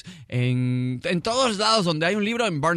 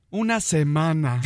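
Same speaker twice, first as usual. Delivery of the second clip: wife; 2 semitones lower, slower than usual. Acted. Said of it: "Y su mujer le responde".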